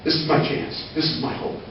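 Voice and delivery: hushed imitation of a man crying; understated, halting, tearful confession; retold tearful plea. Man missing teeth to his visitor, understated tearful hope. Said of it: "he starts to cry, and he says".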